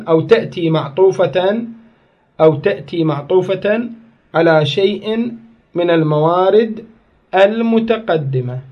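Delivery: slow dictation pace, each phrase set apart with pauses; dictating slowly. Shown as a demonstration. Teacher to students taking notes, slow dictation. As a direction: spell it out slowly so the class can write. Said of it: "خل أعيدها على مود تكتبون".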